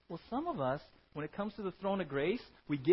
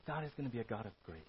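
soft emphasis; 5 semitones lower, 6 dB quieter, faster than usual. Shown as a demonstration. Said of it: "repeated line".

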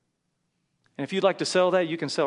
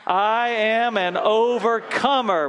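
higher, louder, slow "I am an overcomer" landing on "overcomer"; triumphant declaration; 6 semitones higher, 6 dB louder, slower than usual. Shown as a demonstration. Pastor crying out the declaration with hands raised.

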